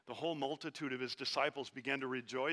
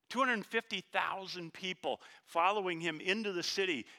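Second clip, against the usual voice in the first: preaching build; 4 semitones higher than usual. Acted. Preacher to congregation, rising to a proclaiming build. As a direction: drive the number home to the room. Crowd size repeated, built up.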